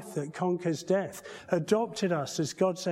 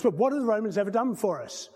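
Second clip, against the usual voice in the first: a lightly voiced exasperated John Cleese, faster; 4 semitones higher, 3 dB louder, faster than usual. Preacher retelling the sketch, mock exasperated Cleese. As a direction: rattle it off as an impatient Cleese. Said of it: "we have John Cleese going".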